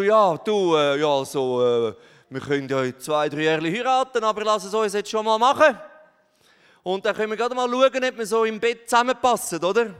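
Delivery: loud, flustered, fast excuses; tempted man. Pretend. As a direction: stammer then rush the offer. Tempted man voiced, stammering.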